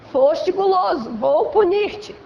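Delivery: slow, lightly stern divine judgment; a hint of a solemn judge pronouncing punishment; mock stern God. God scolding the man who overate, mock stern and slow. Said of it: "pra dizer".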